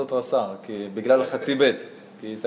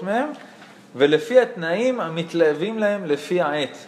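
reading religious text; 3 semitones higher than usual. A narrator's reading.

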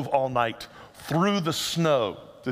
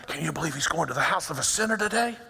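grumbling crowd gossip; faster than usual. Retold or imitated. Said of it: "They're all standing around".

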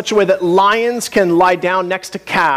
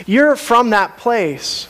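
slow, higher-pitched mock put-down; belittling quote; 4 semitones higher, much slower than usual. People diminishing Jesus as a Nazarene, slow belittling jab. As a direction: imitate people looking down on someone's hometown. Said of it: "It's not a nice thing to say".

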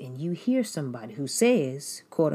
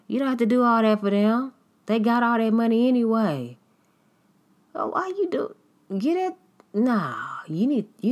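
loud and higher, fast dismissive whine; mocking a critic; 7 semitones higher, 8 dB louder, faster than usual. Critic scoffs at the giver's generosity, loud mock scorn. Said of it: "It's like".

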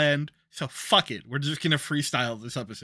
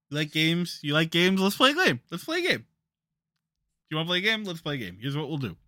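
too calm creepy doll; faster than usual. Acted. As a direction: tease like a horror-movie puppet. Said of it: "Is this like Saw?".

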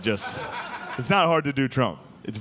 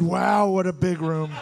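slow, high put-on Trump cadence; Trump impression; 5 semitones higher, slower than usual. Shown as a demonstration. Comic showing the audience his Trump voice, slow and high. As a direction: describe it like Trump would. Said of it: "how to do his voice".

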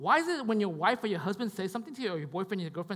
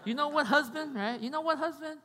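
nagging wife; 4 semitones higher than usual. Retold or imitated. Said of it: "She'd be like".

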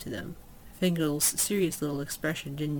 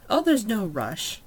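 lady elf, light reassurance; 5 semitones higher, 5 dB louder, slower than usual. Acted. Elf lady, smile seemed off.

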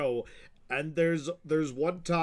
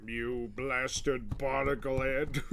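cartoon insult; slower than usual. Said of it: "pretty solid impression".

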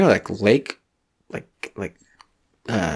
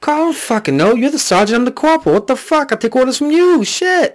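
high, louder exasperated yelling; whiny cop shout; 4 dB louder than usual. Pretend. Corporal yelling back at sergeant Carl, high and whiny. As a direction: rant back at the sergeant in a rising whine.

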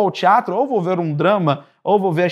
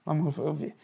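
hushed aside; 3 semitones lower, 11 dB quieter than usual. Retold or imitated. Actor muttering onstage during blackout.

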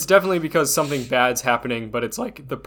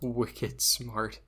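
put-on Boston accent; 3 semitones lower, 9 dB quieter than usual. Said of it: "without a Boston accent".

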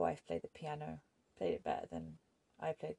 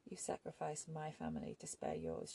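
bitter; 11 semitones lower than usual. A narrator's reading. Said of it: "she said bitterly".

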